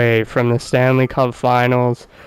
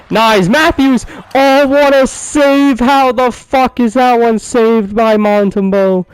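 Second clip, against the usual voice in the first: shocked outcry; 9 semitones higher than usual. Real, not acted. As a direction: react to a robbed goal. Near goal saved.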